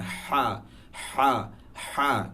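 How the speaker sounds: হা drawn from deep in the throat; deep haa. Shown as a demonstration. Teacher drilling the letter, deep হা. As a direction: repeat হা slowly with a deep throaty h. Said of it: "খুবই deeply উচ্চারণ হয়".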